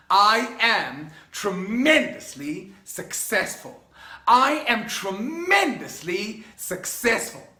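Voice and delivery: slow, firm, believing declaration; confident affirmation. Shown as a demonstration. Coach showing students the affirmation, slow and sure. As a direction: say it like you own it. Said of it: "you've gotta say it with the right feeling".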